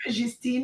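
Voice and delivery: put-on Justine with a soft French J, "zhees-TEEN"; French-style Justine, nasal end; French pronunciation. Shown as a demonstration. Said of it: "I have to say with the French accent".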